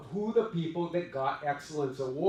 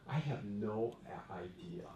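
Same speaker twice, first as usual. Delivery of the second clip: trailing whisper; 8 semitones lower, 12 dB quieter than usual. Retold or imitated. Retold own puzzled answer.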